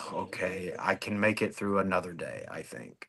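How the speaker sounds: soft, fading tired mumble; weary murmur. Retold or imitated. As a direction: barely get the words out, drained. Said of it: "you're just like".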